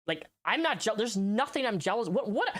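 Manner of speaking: high, fast, exasperated retelling; mock indignant rant. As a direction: mimic his own protest, rising. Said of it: "I was like".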